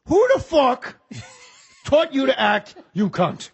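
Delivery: high, loud Pacino outburst; hammed-up Pacino insult; angry Pacino. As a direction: snap at him with mock fury.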